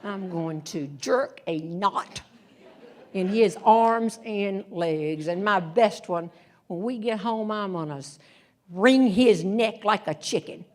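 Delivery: slow, half-laughing mock threats like her mother; mother's old threats. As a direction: lightly play the mother's threats while chuckling. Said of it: "the lines my mother had used".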